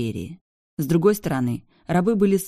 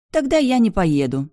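sulky huff; 6 semitones higher, 5 dB louder than usual. A narrator's reading. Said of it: "бросила девушка".

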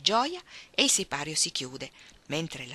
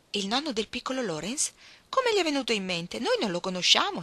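surprised exclaim; 5 semitones higher than usual. Acted. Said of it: "esclamò Meg".

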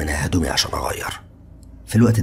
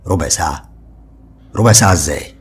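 surprised; 6 dB louder than usual. A narrator's reading. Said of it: "وقلت له بتعجب".

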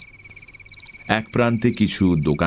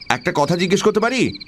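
higher, politely tentative question; 10 semitones higher, faster than usual. Acted. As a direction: ask permission, pitch lifted at the end. Asking a dozing official a question.

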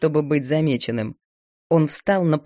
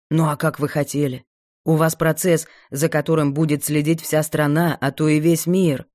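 put-on lightly lowered young man; 2 semitones lower than usual. Dima voiced lower.

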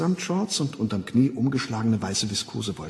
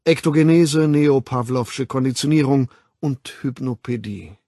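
loud, emphatic orator; lecturing World Controller; 3 semitones higher, 7 dB louder than usual. Acted. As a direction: lay out the history with authority. Mustafa Mond doziert. (laut und nachdrücklich dozierend)

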